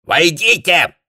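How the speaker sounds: high, loud croak of a command; a toad-like voice calling through the door. A narrator's reading. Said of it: "услышала из-за двери квакающее".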